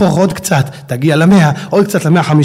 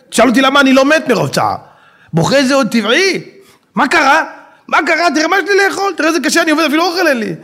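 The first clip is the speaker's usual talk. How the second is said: higher, self-pitying whine; whiny complaint; 7 semitones higher than usual. Acted. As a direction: moan about your hard life. Poor woodcutter complaining.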